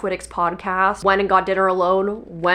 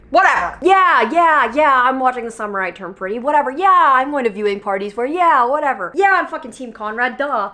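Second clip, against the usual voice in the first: higher, louder mock-defiant shrug; 4 semitones higher, 4 dB louder than usual. Real, not acted. Defending her show to viewers, mock-defiant. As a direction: brush it off, defiant and loud. Defiant about guilty pleasure.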